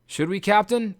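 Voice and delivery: worried ask; anxious question. Acted. Polites to his captain, anxious. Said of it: "asked Polites anxiously".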